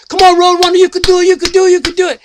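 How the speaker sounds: rooting him on at the finish line; mock cheer from the sidelines; cheering friends. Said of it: "they said".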